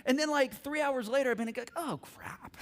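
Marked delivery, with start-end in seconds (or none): 1.8-2.6 soft, sudden regret; sheepish realization. Acted. Dad realizing his punishment backfires, sheepish. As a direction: drop the volume as it dawns on you.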